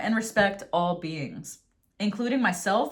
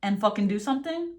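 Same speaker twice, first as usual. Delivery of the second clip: worked up. Real, not acted. Tarot reader urging an end to sides, worked up. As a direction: hit the opening words hard, venting. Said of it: "I'm getting worked up".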